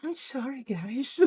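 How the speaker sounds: tiny high, soft voice; possessed Nikki. Retold or imitated. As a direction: imitate an eerily meek switch. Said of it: "possessed Nikki snapped back in".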